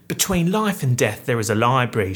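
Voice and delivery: lightly put-on British reading voice; British accent. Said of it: "I don't know why I'm British".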